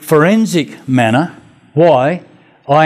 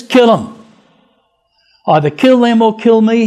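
mock angry; 6 semitones higher than usual. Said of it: "doesn't Jonah get steamed".

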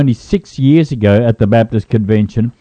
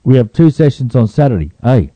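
tacks A flatly onto Saturday like a full stop; mock Canadian eh, wrong placement. Cohost teasing the host, mock Canadian eh put at the sentence end. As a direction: parody the Canadian eh, badly placed. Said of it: "You just put the A in the wrong place".

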